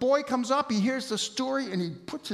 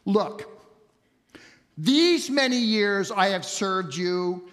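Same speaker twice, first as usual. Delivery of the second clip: "these many years" drawn out slowly in mild reproach; a son's curt "Look", then laboured complaint; understated resentful reading; disrespectful address; slower than usual. Acted. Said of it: "it's a disrespectful address".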